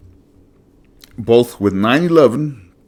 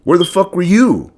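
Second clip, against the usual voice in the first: much higher and louder, raging at the government; furious shout; 10 semitones higher, 6 dB louder than usual. Real, not acted. Host ranting to listeners about nine eleven, furious shout. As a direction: demand it with real fury. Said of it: "Obviously, you can hear it in my voice".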